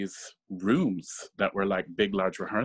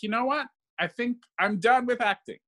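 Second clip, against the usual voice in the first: resolved quote; 13 semitones higher than usual. Retold or imitated. Retold decision, high pitch.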